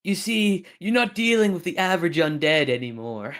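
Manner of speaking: villain voice. Acted. Dramatic villain boast.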